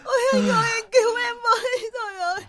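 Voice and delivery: high, wailing plea for rescue; tearful, pleading wail; crying. Acted. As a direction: beg through sobs to be saved. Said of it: "đừng khóc nữa".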